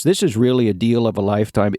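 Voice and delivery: fast salesman pitch; infomercial pitch. Acted. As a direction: rush it like a huckster. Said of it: "that's the infomercial I'm in".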